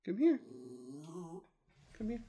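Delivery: high-pitched beckoning call; coaxing call. Real, not acted. Host coaxing Chester over to join in, high coaxing call.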